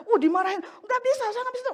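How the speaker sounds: put-on high, loud childish refusal; mock stubborn whine; refusing a scolding. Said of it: "kadang kita suka menolak kan".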